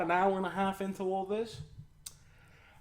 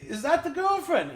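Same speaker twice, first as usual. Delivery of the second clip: higher, laughing through the question; asking while laughing; 8 semitones higher, 5 dB louder than usual. Retold or imitated. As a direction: laugh as you ask it. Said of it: "I'm like".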